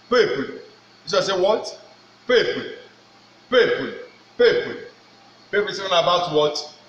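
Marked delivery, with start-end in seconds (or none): 0.1-5.7 "Peuple" drilled with French eu vowel; French pronunciation. Shown as a demonstration. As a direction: repeat "Peuple" firmly.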